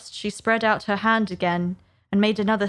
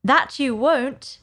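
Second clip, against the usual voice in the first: slow, higher, determined retort; raised pitch, deliberate and resolute; defiant Alice; 5 semitones higher, slower than usual. Acted. Alice silently defying the rabbit.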